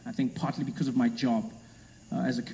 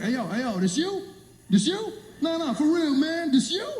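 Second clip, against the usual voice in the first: excited fans stopping him; 12 semitones higher than usual. Retold or imitated. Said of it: "They just walk up to me like".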